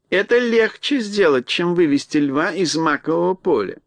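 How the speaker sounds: mouse queen voice. Acted.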